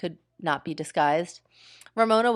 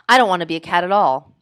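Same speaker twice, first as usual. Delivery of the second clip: louder, fast sulky insistence; 7 dB louder, faster than usual. Acted. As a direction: refuse like a stubborn boy.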